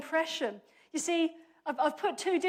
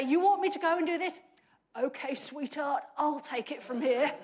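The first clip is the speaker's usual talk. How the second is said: action man voice. Retold or imitated. Preacher voicing Barak as brash action man, light macho voice. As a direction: lightly play the confident tough guy. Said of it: "in my best action man voice".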